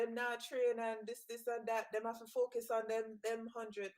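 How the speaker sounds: imitating the coach in a Jamaican accent. Mimicking Coach Francis complaining, in a Jamaican accent. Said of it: "in my Jamaican accent".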